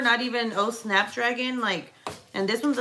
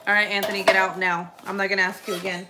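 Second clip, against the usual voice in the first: stern; faster than usual. Real, not acted. Mother ordering son out.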